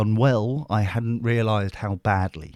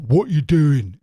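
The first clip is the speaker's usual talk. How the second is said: loud, higher-pitched caricature of a butch woman; butch lesbian impression; 7 semitones higher, 8 dB louder, slower than usual. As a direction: belt it out in a mock butch voice. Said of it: "because she's lesbian and butch".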